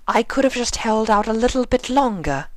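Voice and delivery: delicate hazy voice; Rarity, dazed. A narrator's reading.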